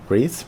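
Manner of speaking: Rees with a long "ee", lifting at the end; one-syllable Rees. Shown as a demonstration. Host dithering over a viewer's surname, questioning. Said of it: "I'm doing it again".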